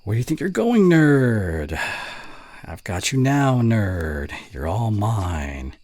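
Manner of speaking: reading a bully line. Acted. Reading an ASMR bully script aloud, mock taunting. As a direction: read the script as a half-hearted bully. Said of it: "let's see here".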